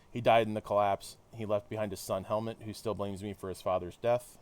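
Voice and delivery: measured read-aloud of a hero's debrief; story narration. Acted. Hero recounting the London mission to listeners, narrated. Reads game dialogue aloud.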